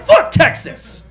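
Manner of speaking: high, loud, drawn-out mock jeer; hammed-up hateful fan shout; rival fan yell. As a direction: holler it like a rowdy sports fan. Acts fans cursing rival state.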